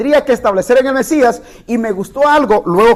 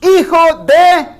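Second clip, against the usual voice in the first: crying out; 6 semitones higher, much slower than usual. Retold or imitated. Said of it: "Qué es lo que está exclamando él".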